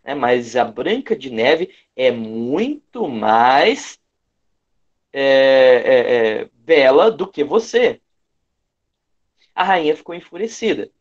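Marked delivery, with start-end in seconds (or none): 0.2-8.0 mirror's verdict, each word leaned on; with emphasis. Retold or imitated. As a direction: press hard on muito mais bela. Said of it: "e com tanta ênfase". (espelho falando com muita ênfase)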